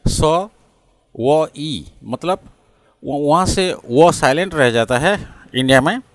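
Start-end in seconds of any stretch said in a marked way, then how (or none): 0.1-1.8 स, व, ई sounded one by one; slow breakdown, स... व... ई; w sound included. Shown as a demonstration. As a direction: separate स, व, ई to show the w in the middle. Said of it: "वो को मिसाना चाहिए".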